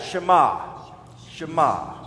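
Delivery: Shema as shuh-MAH, stress on the end; teacher modelling Shema for repeating; demonstrating Hebrew Shema. Shown as a demonstration. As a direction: say Shema distinctly, weight on MAH. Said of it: "Go ahead and say that".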